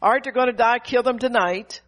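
preacher mimicking a vengeful believer; mock vengeful prayer. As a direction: ham up a spiteful prayer. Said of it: "Instead of".

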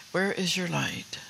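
slowed, each word spaced; slow emphatic question. Real, not acted. Preacher pressing the congregation again, slow and deliberate. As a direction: press the question home slowly.

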